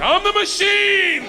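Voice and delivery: high, drawn-out mock battle cry; triumphant shout. Student boasting to a Russian gangster, triumphant shout. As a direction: bellow it, stretching the last word high.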